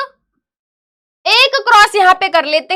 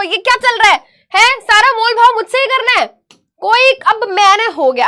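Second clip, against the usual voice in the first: higher, indignant rhetorical questions; exasperated scolding; 4 semitones higher, 3 dB louder than usual. Real, not acted. Teacher asking why all bargaining lands on her, exasperated. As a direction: demand answers, thoroughly fed up.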